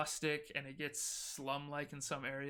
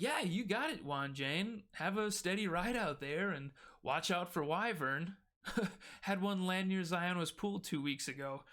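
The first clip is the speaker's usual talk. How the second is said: jovial, sing-song banter with a chuckle midway; chuckling guards; 4 semitones higher than usual. Acted. Guards seeing the driver off past the gate, chuckling. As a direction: joke along with a swooping, amused lilt. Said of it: "they just start chuckling".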